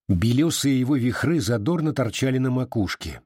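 ordinary delivery

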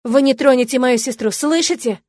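loud, high defiant shout; крик. A narrator's reading. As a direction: yell to protect her sister. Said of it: "прокричала".

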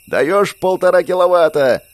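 loud, high, triumphant yell; Andrey cheers as the power comes on, yelling joyfully. A narrator's reading. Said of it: "радостно завопил Андрей".

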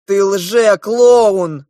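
loud, slow angry accusation. Acted. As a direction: spit it out, furious. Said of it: "побагровел старший принц". (громко и медленно, гневно)

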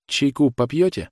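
the mother, lightly voiced, offering tea with a mild tremor; trembling voice. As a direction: offer tea while hiding the shaking. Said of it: "вздрагивающим голосом спросила она".

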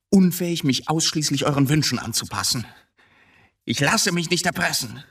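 high, rising cry of defiance; defiant outburst. Acted. Son shouts his freedom at his mother, high and defiant. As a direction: tear free of her at last.

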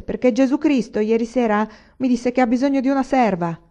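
put-on the village madman raving to the boy; old madman. A narrator's reading. Old madman telling the boy of Christ, raving.

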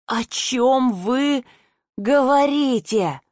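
slow, breathed-out stunned question; a mild narrated gasp of disbelief; stunned, breathless. A narrator's reading. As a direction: let the words fall out in shock, slowly. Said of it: "выдохнула ошарашенно".

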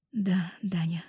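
soft breathy sigh of yes; breathed out. A narrator's reading. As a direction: breathe the words out softly. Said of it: "выдохнула я".

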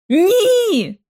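high sharp cry of no; horrified cry. A narrator's reading. Lucy screams at George to stop. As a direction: scream it out in horror.

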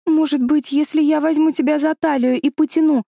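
высокий детский голос, чуть громче; неуверенно предложить помощь; робко предлагая. A narrator's reading. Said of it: "предложила она". (робкое предложение испуганной девочки)

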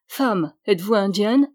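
a touch of stern priest. Acted. Priest questions the bride, lightly stern. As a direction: ask with mild sternness. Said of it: "d'une voix sévère".

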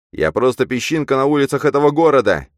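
loud, high, lost exclamation; bewildered outcry. A narrator's reading. Man feels tiny in the city, bewildered. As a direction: cry it out at a loss. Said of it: "растерянно сказал я".

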